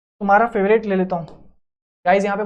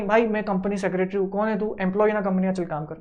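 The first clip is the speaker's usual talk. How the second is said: arrogant boss; 3 semitones lower than usual. Retold or imitated. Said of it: "ऐसा नहीं".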